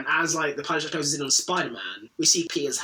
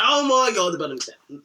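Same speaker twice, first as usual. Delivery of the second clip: mock panicked janitor; 4 semitones higher, 5 dB louder than usual. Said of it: "the janitor's like".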